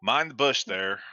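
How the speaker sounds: hillbilly accent. Shown as a demonstration. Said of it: "that's more hillbilly".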